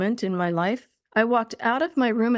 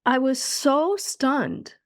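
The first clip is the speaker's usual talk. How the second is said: usual speaking voice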